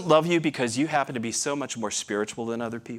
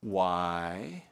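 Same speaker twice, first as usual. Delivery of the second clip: wife's question; 6 semitones lower, 8 dB quieter than usual. Retold or imitated. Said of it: "And then she says".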